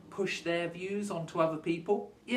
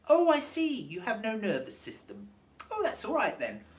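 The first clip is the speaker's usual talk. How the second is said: sarcastic; 2 semitones higher than usual. Real, not acted. Sarcastic mock acceptance.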